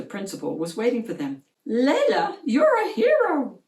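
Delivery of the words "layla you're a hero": high and loud, bursting with praise; excited exclaim. A narrator's reading. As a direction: cry it out with joy. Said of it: "she exclaimed".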